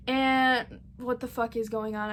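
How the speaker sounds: "what the fuck is going on" in a slightly odd, sleepy put-on voice; a mild mock of a groggy just-woken question. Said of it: "I don't know why I'm talking like this".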